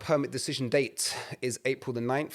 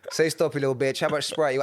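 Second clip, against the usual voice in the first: mock bartender taunt, pushed harder; 2 semitones higher than usual. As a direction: jeer at the customer with a grin. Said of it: "being like".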